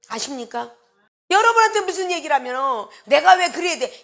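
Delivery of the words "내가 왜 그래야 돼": higher-pitched imitated back-talk; imitating someone challenging an order; mock defiant retort. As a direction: argue back like a balky churchgoer. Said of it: "이러고 따지고 들어".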